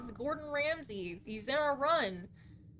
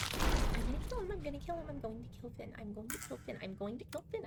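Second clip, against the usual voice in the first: muttered threat; 7 dB quieter, much faster than usual. Pretend. Fading to murmured threats.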